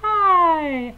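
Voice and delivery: masked robotic voice effect; Darth Vader voice changer. Pretend. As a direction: speak through a voice-changing mask. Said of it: "Now I'm Darth Vader".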